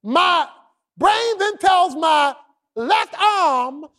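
loud, building preacher cadence; preaching at full force. Acted. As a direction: drive it home from the pulpit.

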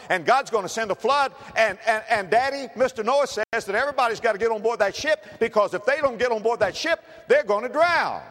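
put-on eager boy racing to warn his dad; excited child. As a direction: rush the warning out excitedly. Boy's report building to climax.

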